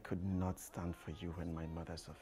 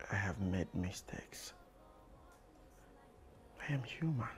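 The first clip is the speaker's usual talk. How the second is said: whispered apology. Acted. Man whispering his apology to Angie. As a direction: confess it under your breath.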